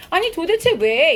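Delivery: a touch of acted disbelief; emphatic bewilderment. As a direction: ask it as if baffled. Paraphrases an emphatic bewildered question.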